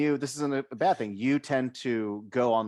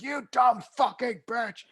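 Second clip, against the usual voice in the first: high, slow laughing doll voice; Chucky voice; 11 semitones higher, 4 dB louder, slower than usual. Retold or imitated. Host imagining the line in the Chucky voice. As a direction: do it as the killer doll. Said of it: "in the Chucky voice".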